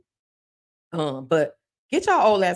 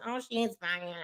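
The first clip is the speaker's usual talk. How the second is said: mock admiring; 3 semitones higher, 12 dB quieter than usual. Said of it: "I want y'all to be like".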